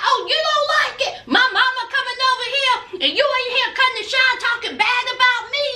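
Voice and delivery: fast, high-pitched mock tirade; mock angry rant. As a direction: rattle it off like a riled boyfriend. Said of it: "he had all kinds of bass".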